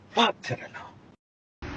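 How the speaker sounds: slow, soft, breathy repeat; whispered, drawn-out refusal. Real, not acted. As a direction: hiss it out slowly.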